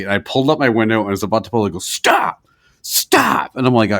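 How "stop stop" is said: high, airy calls of stop; calling after. Retold or imitated. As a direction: call him back, half whispered. Old man calling after.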